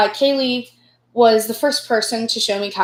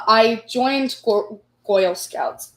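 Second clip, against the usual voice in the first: Brooklyn accent; slower than usual. Real, not acted. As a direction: slip into a Newsies Brooklyn accent. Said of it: "sometimes I will jump into my Brooklyn accent".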